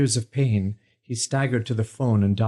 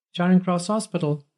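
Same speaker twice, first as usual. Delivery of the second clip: a higher, crisp switchboard greeting; hospital operator; 8 semitones higher than usual. A narrator's reading. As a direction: answer like a busy operator. Hospital operator answers the phone.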